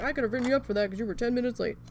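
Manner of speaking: fast, nagging mock boss; lightly voiced bossy manager threatening a write-up. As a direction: rattle off a petty reprimand. Mimicking the manager's scolding.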